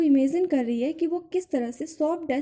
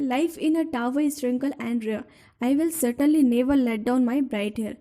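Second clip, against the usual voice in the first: slow, dreamy line-by-line reading; poem recitation; much slower than usual. Acted. Teacher reading Amanda's daydream to the class, slow recitation. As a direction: read it slowly, savouring each line.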